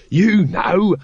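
slow, patient explanation; patient explaining. A narrator's reading. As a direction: spell it out patiently. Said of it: "said Throat patiently".

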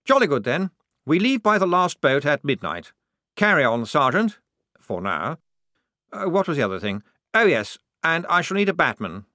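high, loud, officious officer voice; jolly lieutenant. A narrator's reading. Lieutenant wrapping up his briefing, jolly and officious. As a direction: give orders with chirpy officer cheer.

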